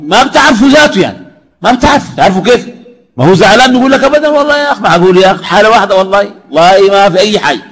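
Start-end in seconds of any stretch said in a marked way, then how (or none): 4.0-7.6 high, exaggerated protest of innocence; mock insincere denial. Preacher imitating a grudge-holder, a high mocking denial. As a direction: overplay the denial so nobody believes it.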